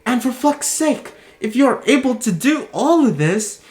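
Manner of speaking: ordinary delivery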